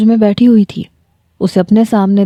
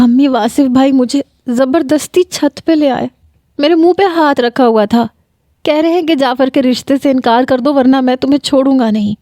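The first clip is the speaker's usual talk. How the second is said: mock crying; 5 semitones higher than usual. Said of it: "میں روتے ہوئے اپنی والدہ کے ساتھ لگ گئی".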